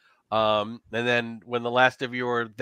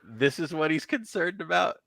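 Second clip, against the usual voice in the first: amused cat; 5 semitones higher than usual. Acted. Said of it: "looks over at Vivian and says".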